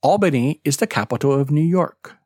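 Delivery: fast factual statement falling at the end; falling intonation. Shown as a demonstration. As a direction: drop the voice on New York. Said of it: "example of falling intonation".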